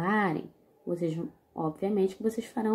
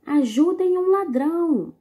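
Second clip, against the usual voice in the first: "Ajudem um ladrão" called out high and loud; shouted cry for help; 9 semitones higher, 7 dB louder than usual. Shown as a demonstration. Teacher rereading the comic to pupils, calling out loud. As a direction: yell for help at a robbery. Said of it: "Vou ler novamente".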